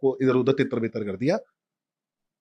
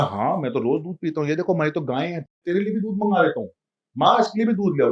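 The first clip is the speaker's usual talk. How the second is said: put-on boastful child; 5 semitones higher than usual. Boastful rich child voiced.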